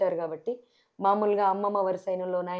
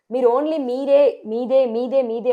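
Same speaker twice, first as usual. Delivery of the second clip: slow and louder, each word pressed hard; rising anger; 5 dB louder, slower than usual. Real, not acted. Village candidate protesting to the interviewer, slow indignant emphasis. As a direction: drag out every word in real indignation. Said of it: "నాకు కోపం వస్తుంది".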